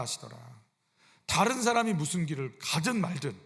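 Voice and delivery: ordinary delivery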